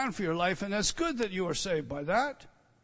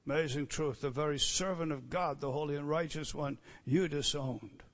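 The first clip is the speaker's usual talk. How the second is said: soft and lower; hushed; 4 semitones lower, 6 dB quieter than usual. Real, not acted. Preacher hushing to let the truth sink in. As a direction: drop low after the shout. Sudden hush after shout.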